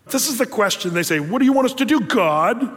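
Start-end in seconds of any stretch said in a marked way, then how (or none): 1.2-2.7 raised, exasperated mock challenge; imitating a rebellious people's retort. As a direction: throw it back at God with attitude. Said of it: "In rebellion, they're, they're answering".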